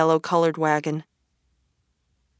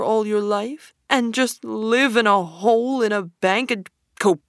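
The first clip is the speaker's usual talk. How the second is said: higher, coaxing, swelling on the world; pleading Toad; 4 semitones higher than usual. Acted. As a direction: coax him away from the river.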